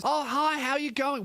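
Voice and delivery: high, over-friendly greeting; chatty restaurant hostess. Retold or imitated. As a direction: greet diners in a mock chirpy voice. Voices the chatty restaurant woman.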